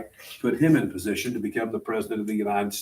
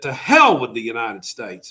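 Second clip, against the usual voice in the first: louder mock yell of an angry beachgoer; retold yell; 7 dB louder than usual. Angry man on the beach yelling at Frank Petroni, loud mock yell. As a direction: bark out the insult, loud but retold. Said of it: "and he yelled".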